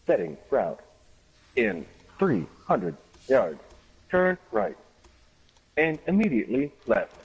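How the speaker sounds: mock robotic route guidance; GPS voice. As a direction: read directions like a navigation system. Imitating GPS directions.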